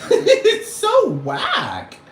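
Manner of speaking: shrieking laugh through the words; laughing shout. Real, not acted. Vlogger cracking up at how whack the planet is, laughing shout. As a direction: burst out laughing, very high and loud.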